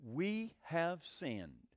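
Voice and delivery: slow, soft, hushed "We have sinned"; contrite confession. Retold or imitated. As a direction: confess it slowly, almost under breath. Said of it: "Moses goes to God and says".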